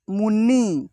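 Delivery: मुन्नी said clearly, with a doubled न; clear pronunciation demo. Shown as a demonstration. Teacher showing pupils how to say मुन्नी, crisp doubled न. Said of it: "इसका उच्चारण किए हैं मुन्नी".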